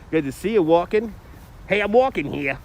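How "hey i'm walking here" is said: higher New York tough-talk impression; Ma's voice. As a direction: put on a pushy New York movie-quote voice. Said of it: "Your favorite Ma's voice".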